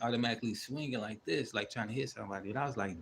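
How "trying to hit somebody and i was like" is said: ordinary talk, nothing marked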